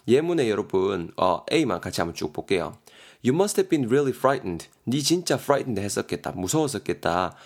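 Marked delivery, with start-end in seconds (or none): 3.2-4.7 아주 느리게 한 단어씩 또박또박 읽기; 학생들이 따라오게 천천히 읽어주기. Shown as a demonstration. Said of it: "예문을 천천히 읽어줌". (예문을 아주 느리게 또박또박)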